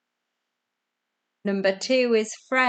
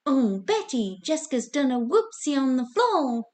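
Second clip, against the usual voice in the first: high, swooping put-on sitcom voice; Frank Spencer; 5 semitones higher than usual. Shown as a demonstration. Quiz host retrying the impression for players, high and hammed-up. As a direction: do a hammed-up, crappy catchphrase impression. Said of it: "my crappy impression of, um, Frank Spencer".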